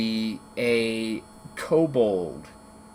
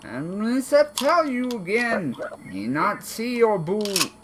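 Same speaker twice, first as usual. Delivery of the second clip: high kobold; 10 semitones higher than usual. Acted. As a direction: insist in broken words. Kobold insisting.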